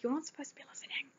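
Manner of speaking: mock hushed dad voice, quick and soft; quiet. Dad caught talking, hushing his eavesdropping daughter, quick and soft. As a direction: imitate Dad dropping his voice, hurried. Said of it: "he went all quiet".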